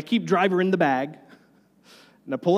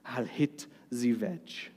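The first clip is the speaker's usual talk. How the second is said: put-on French accent; 4 semitones lower, 7 dB quieter, slower than usual. Quoting French golfer Van de Velde.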